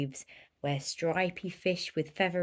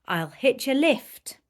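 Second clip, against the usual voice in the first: louder, higher burst of an idea; excited cry; 5 semitones higher, 5 dB louder than usual. Acted. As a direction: shout out the bright idea. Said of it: "then cried".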